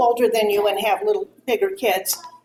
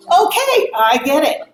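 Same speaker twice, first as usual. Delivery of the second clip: sarcastic; 4 semitones higher, 4 dB louder than usual. Retold or imitated. Sarcastic close of retold quarrel.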